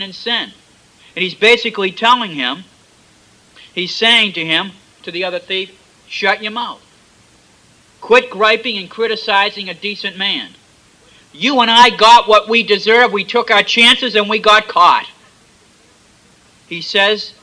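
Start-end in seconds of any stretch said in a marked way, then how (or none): 6.1-15.1 louder, rising scolding; angry rebuke. Acted. Thief telling the other thief to shut up, angrily. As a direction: tell him off hard.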